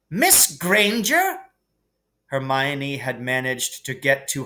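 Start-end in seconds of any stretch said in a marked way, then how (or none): 0.1-1.4 slow, rising astonished question; can't believe it's her; surprised teacher. A narrator's reading. McGonagall discovers Hermione in the shadows, surprised.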